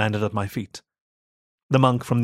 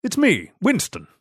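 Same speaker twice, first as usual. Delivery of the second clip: higher called reply; higher call to the maid; 9 semitones higher than usual. A narrator's reading. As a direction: call your name back to her. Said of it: "I called".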